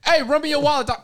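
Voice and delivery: high hammed-up mugger demand. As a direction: play a robber shaking him down. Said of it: "You start running me all crazy".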